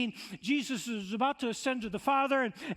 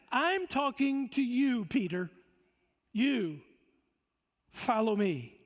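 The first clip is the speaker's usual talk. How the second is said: slow pointed command; slower than usual. Acted. Jesus voiced addressing Peter.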